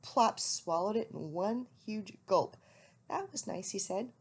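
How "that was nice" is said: owlet voice. A narrator's reading. Plop voiced in story.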